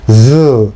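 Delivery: Z slow and voiced with teeth almost closed; buzzing Z. Shown as a demonstration. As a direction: buzz the Z in the throat. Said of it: "목을 울리면서 하는". (목을 울리며 Z)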